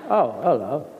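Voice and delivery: mock camera greeting, laughing; same unchanged voice whatever the role; Michael Caine as Gandhi. Actor teases Caine never changing dialect, laughing. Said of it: "like Michael Caine".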